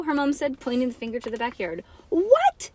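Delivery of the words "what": very high, loud "what?"; yelped. Acted. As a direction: yelp in outrage. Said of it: "Bean yelped".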